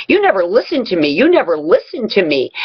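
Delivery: lightly imitated partner's whiny grievance; mock an exasperated partner; retold nagging complaint.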